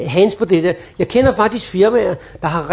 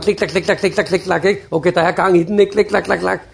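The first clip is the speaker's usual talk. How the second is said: keyboard clicks; 2 semitones lower than usual. Retold or imitated. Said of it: "Så kan man også høre".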